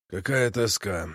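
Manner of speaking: a hint of hopeless grief; weary sigh. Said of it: "сказал он".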